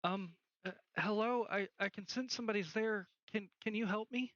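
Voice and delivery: lightly voiced little girl, hesitant; a hint of a small girl, halting; small girl's voice. Small girl senses somebody there, lightly voiced and tentative. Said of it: "you hear the voice too".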